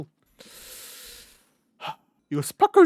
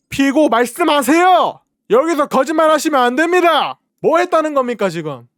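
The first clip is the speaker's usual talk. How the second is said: prosecutor voice; 4 semitones higher, 6 dB louder than usual. Pretend. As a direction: interrogate like a prosecutor. Mock courtroom prosecutor grilling.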